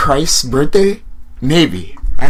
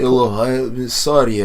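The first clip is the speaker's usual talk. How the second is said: mock Russian accent. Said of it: "Russian or something?".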